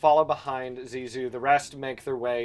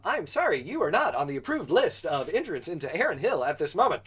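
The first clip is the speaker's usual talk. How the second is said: polite, stiff robot guard voice; 3 semitones higher than usual. Acted. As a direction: recite it like a gate robot. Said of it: "the robot says".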